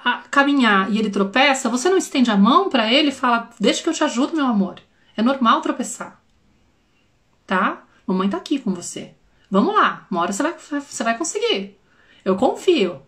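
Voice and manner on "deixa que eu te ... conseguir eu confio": put-on soft, reassuring words to a toddler; mother softly reassuring her toddler; tender mother. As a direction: gently comfort a child who stumbled. Mother comforting toddler who tripped.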